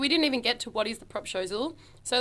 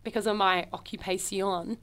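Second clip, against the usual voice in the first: put-on Spanish accent on "occupation"; 2 semitones lower, 3 dB quieter than usual. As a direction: say it like a mock Spaniard. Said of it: "saying it in a Spanish accent".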